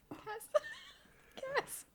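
high, laughing 'Cass'; fond laughing scold. Retold or imitated. Fan laughs at Cassie gushing over Rachel, high fond tease. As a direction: tease her through laughter. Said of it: "And it's like".

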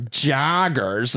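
mock Chicago accent. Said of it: "you're from Chicago, huh?".

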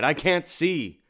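high, loud, drawn-out wail; panicked cry. A narrator's reading. Blinded monster wails under the cloak, drawn-out panicked cry. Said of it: "it cried".

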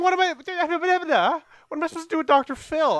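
high, loud, flustered outburst; what-do-you-want-from-me exasperation; exasperated protest. Real, not acted. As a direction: protest loudly at the top of your pitch. Protesting the Doctor Phil topic.

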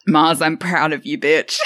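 shouting cheer. Real, not acted.

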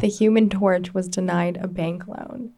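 talking around a pencil in the mouth; "Human" forced out past a pencil held in the teeth. Shown as a demonstration. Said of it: "practice talking like this".

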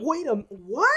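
mock double take.

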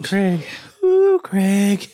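high loud strained cry; loud pained yelp. Real, not acted. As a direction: yelp from the chili burn. Reacting to spicy heat.

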